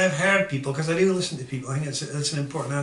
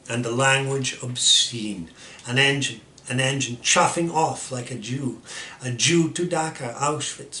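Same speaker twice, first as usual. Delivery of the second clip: emphatic poetry reading with punched stresses; poem recitation; slower than usual. Acted. Reciting Daddy to a listener, emphatic poetry recitation. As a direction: recite with weight, hitting key words hard.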